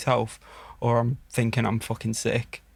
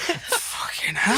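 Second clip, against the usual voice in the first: slow breathy fucking hell; stunned slow breathy exclamation; awed gasp; 10 semitones higher, much slower than usual. Retold or imitated.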